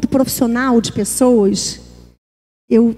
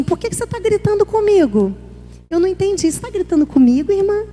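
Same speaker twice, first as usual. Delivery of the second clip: candid questioning; 6 semitones higher than usual. Acted. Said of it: "É mais fácil falar assim".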